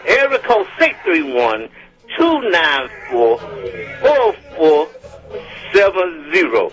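phone number read out slowly with longer pauses; careful, slowed dictation of a number. Real, not acted. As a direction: space out the digit groups for someone writing them down. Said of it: "gonna do it again in case I went too fast".

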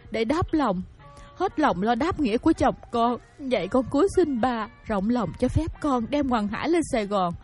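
tearful plea. Acted. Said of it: "vừa khóc vừa lại ông Quyện và lên tiếng nói". (vừa khóc vừa van xin)

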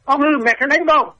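retold stern scolding from a mother with a switch; mock scolding. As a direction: play the strict mother threatening a spanking.

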